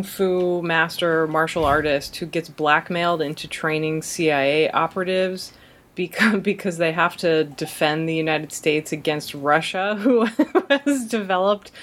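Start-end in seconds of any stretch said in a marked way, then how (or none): 6.0-11.7 laughing. Real, not acted. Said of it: "You're doing it".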